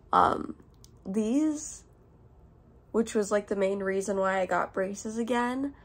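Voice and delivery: lips stretched by fingers; talking with lips held open; fingers pulling lips. Real, not acted. Seen 0: fingers pull lips apart only from 4.3s, near the end.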